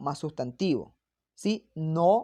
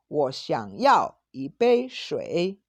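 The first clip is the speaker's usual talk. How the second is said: more polite; 4 dB louder, much slower than usual. Shown as a demonstration. Teacher modelling the polite version, gentle and slow. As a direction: ask gently, as a courteous request. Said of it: "el tono es menos fuerte que yao".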